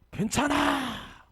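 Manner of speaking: 괜찮아 yelled high, loud and drawn out; a trainer's commanding shout at the dog owner. Retold or imitated. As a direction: bark it out to stop the owner cold. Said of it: "소리 지르고".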